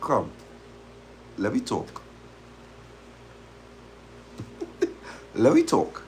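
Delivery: soft, menacing calm; quietly beckon, deadly calm; calm summons. Retold or imitated. She calls the boyfriend over, eerily quiet.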